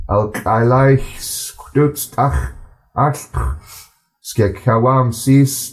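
slow, measured reading in a steady flow; slow careful reading. Shown as a demonstration. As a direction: read each word slowly and clearly, in a smooth flow. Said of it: "I'm gonna read it a bit slower".

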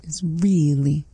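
whisper. Real, not acted. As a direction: whisper it to yourself. Learner whispering along.

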